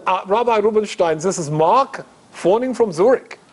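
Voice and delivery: imitated German phone caller; German accent. German caller introduces himself to the rabbi, German accent. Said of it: "in this German accent".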